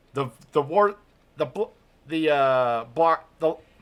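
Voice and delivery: excited stutter, tongue-tied, tripping over words. Announcing upcoming matches, stuttering with excitement. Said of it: "I am stuttering like crazy because of the pure excitement".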